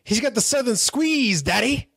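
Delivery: a hint of mock Southern accent; Southern Hogan. Host imitating the wrestler's Southern promo, lightly put-on Southern accent. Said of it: "this is Southern Hogan".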